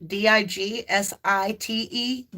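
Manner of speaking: D I G S I T E spelt letter by letter, slowly; spelled out slowly. Shown as a demonstration. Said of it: "kept trying to say dig site".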